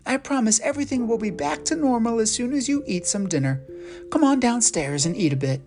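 put-on calm a frightened child; reassuring mom. Mother comforting her confused son, gentle.

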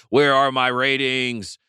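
half-hearted scream, words stretched slowly; mock yell. Host mimics upset ratings heads yelling at the sky, mock yell. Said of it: "They're gonna be yelling, uh, screaming".

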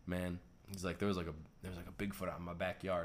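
put-on a light southern accent; casual storyteller's hint of southern accent. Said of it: "sorry, I'm using a southern accent".

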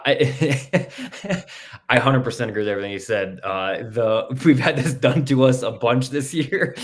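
talking through laughter; laughing. Real, not acted. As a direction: chuckle through the words. Laughing at a coach's comment.

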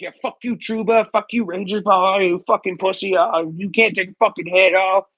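mocking jeering fan. Jeering at an injured rival like a heckling fan, mocking. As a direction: sneer at the injured player like a nasty fan. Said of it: "I'm not gonna sit there and be like".

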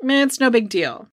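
shrugging, careless "meh"; mock indifferent. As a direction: brush it off like nothing matters. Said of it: "It's almost like".

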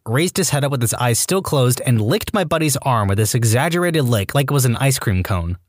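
ordinary delivery

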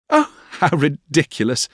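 high, pretty exclamation; playful, dismissive little cry; Dora. Acted. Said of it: "cried Dora".

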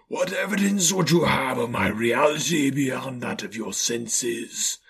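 eerie, sustained spectral voice; ghostly, connected chant-like questioning; Marley's ghost. A narrator's reading. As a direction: intone the question as a haunting spirit.

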